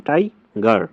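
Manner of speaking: টাইগার said slowly, both syllables টাই and গার clear; syllables drawn out. Shown as a demonstration. Teacher models টাইগার for pupils, slow syllable by syllable. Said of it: "টাইগার আমরা দুইবার বললাম".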